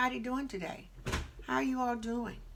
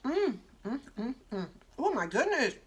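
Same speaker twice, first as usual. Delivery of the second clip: delighted mm of tasting; savoring; 3 semitones higher than usual. Real, not acted. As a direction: relish the first bite. Tasting the food.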